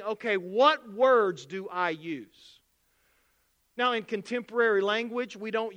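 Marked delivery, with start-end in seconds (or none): 0.0-2.6 slow pondering. Retold or imitated. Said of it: "you're saying".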